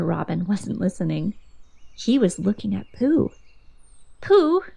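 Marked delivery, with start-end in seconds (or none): 4.2-4.6 calling out. A narrator's reading. Christopher Robin calling Pooh.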